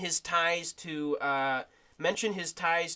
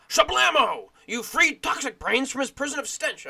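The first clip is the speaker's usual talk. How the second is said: announcer voice; 8 semitones higher, 6 dB louder than usual. Acted. Announcer-like game voice.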